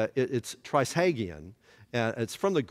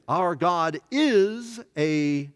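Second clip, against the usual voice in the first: slow solemn scripture; 2 semitones higher, 3 dB louder, much slower than usual. Shown as a demonstration. Preacher reading Hebrews to the class, slow and solemn. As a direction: let consuming fire sink. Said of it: "Hebrews chapter ten".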